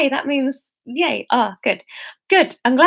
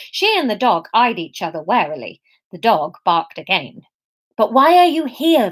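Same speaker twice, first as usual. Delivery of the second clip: steady storytelling read-aloud voice; story narration; 2 semitones lower than usual. A narrator's reading. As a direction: read the chapter to your listeners. Reads her novel chapter aloud.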